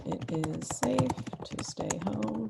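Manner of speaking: slow, careful words spoken into the microphone; slow dictation to the computer. Shown as a demonstration. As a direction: dictate each word slowly and clearly. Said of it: "using the microphone to say the text".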